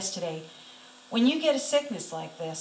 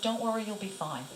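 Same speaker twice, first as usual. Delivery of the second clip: soft, hushed reassurance; very low voice; 6 dB quieter than usual. Retold or imitated. Jesus comforts the worried patient, in a low voice. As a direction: say it quietly, as gentle comfort. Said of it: "he said in a very low voice".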